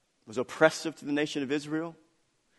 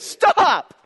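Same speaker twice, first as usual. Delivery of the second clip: much higher, louder, with a laugh breaking through; loud exasperated shouting; 12 semitones higher, 7 dB louder, slower than usual. Acted. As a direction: shout him down in disbelief. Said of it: "That's how he said it".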